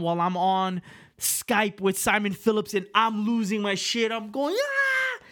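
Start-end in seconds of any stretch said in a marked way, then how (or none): 4.5-5.2 high shrieking celebration scream; excited scream. Retold or imitated. Yelling to Simon over a last-second touchdown, excited scream.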